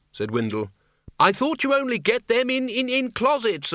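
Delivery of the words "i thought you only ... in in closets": high, raised protest; high-pitched, faltering shout. A narrator's reading. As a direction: call it out over the din, stumbling on words. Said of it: "shouted Ridcully".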